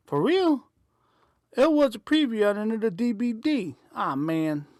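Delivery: high, fast disbelief; surprised. Acted. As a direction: blurt it out in surprise. Excited patron complaint.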